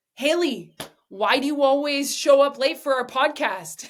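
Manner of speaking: loud, confrontational, accusing, blaming tone. Showing how a question can sound like an attack: accusing, attacking tone. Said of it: "does it sound like an attack".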